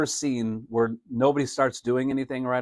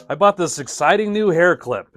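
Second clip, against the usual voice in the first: mock excitement; 5 semitones higher, 7 dB louder than usual. Shown as a demonstration. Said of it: "It's not exciting".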